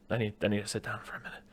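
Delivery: soft, quick stunned mumbling; mock stunned. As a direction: imitate a man needing a moment, softly. Acted shaken man being interviewed.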